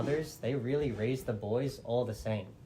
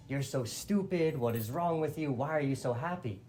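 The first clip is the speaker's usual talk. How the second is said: exasperated, higher-pitched retold scolding; incredulous telling-off, pitched up at the start; 4 semitones higher than usual. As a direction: mildly berate someone for being foolish. Maid scolds the excited queen.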